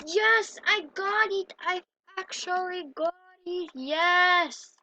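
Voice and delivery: excited cheer. Real, not acted. Gamer finally makes the jump, loud excited cheer. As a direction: celebrate the jump loudly.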